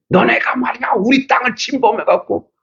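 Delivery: high-pitched indignant scolding, imitated; mock quarrelsome complaint; acted accusation. Acted quarrel over the land.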